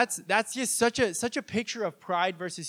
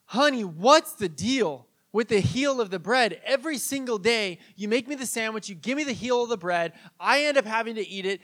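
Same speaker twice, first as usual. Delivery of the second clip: frustrated husband; 4 semitones higher, 5 dB louder than usual. Retold or imitated. Husband finally complains to his wife about the heel, exasperated. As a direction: air decades of grievance in a mild outburst. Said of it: "he finally just loses it".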